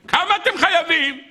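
high-pitched eager query; urgent question. Acted. Young man asks the distressed wife her debt, urgent.

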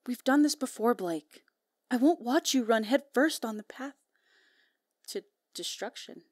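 lightly voiced concerned mother; a hint of a mother's firm talk; mama voice. Partner warning Blake off destruction, mama voice. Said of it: "That's my mama voice".

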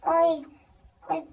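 normal talking voice

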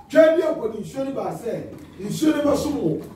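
calling on God. Acted. Repeats the acted address to God.

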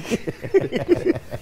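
high, airy cackling; real high-pitched laugh; laughter. Real, not acted. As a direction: burst into wheezy giggles. Laughing at the comparison.

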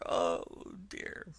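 "oh dear" trailing off to almost nothing; fading sob. Acted. Toad's sob to the driver, trailing away softly. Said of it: "sobbed Toad".

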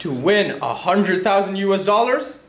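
upbeat sales pitch announcer; infomercial voice. Acted. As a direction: sell it like a TV infomercial. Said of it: "I sounded like an infomercial".

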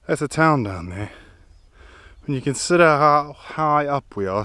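breathless after the climb; puffing between words; out of breath. Real, not acted. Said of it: "excuse me, I'm out of breath".

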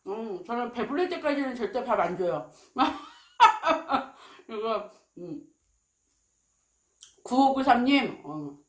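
talking while chewing crunchy food; muffled words between bites; mouth full chewing. Real, not acted. Seen 3: Cheeks full, chewing, holding crunchy bone piece while speaking.

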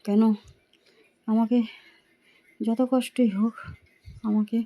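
barely opening the mouth to speak; sore throat voice. Real, not acted. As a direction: talk gently through a painful throat. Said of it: "তাই আস্তে আস্তে করে".

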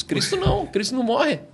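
não thrown up high in pitch; stress on não. Real, not acted. Preacher to the host, stressing não high. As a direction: hit Cristo não hard and high.

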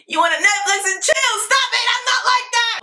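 very high, squealed mock outrage; mock coy protest. Girl pretending to object to Netflix and chill, mock coy. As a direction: play coy in a silly high voice.

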